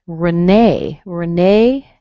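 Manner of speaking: "Renee" as ruh-NAY, loud on the second syllable; Renee with schwa. Shown as a demonstration. Teacher introducing a French name, schwa in "Renee". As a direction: reduce the first E of "Renee" to uh. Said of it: "you hear a schwa".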